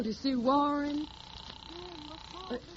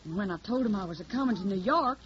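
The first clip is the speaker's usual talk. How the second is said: put-on hillbilly accent. Hildy poses as a Tennessee country girl, in a put-on Southern accent. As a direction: play the naive Southern hillbilly singer. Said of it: "I got the technique down pat".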